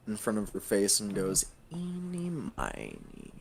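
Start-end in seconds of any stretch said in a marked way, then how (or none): 1.7-3.3 playful counting-out rhyme. Acted. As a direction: toy with the choice. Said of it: "almost kind of playfully".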